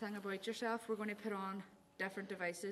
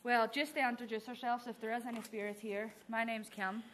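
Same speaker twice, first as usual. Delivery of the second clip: calling out to spirits. Acted. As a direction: address the spirits clearly and politely. Calls out to spirits.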